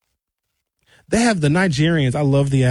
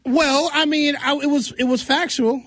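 sheepish high voice; 9 semitones higher than usual. Retold or imitated. Sheepish self in story.

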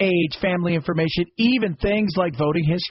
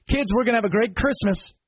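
lightly voiced smug executive; mock rich executive; 5 semitones higher than usual. Mock executive to his kids.

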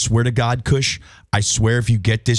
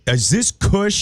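higher, doubting phone answer; mock suspicious callee; 7 semitones higher, much slower than usual. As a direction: demand who's really calling, in play. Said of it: "I'll be like".

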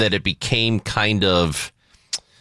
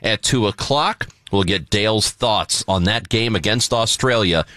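upbeat, projected host read into the break; radio show tease; 3 semitones higher than usual. Real, not acted. Host promoting soccer talk after the break, announcer style. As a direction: sell what's coming up next.

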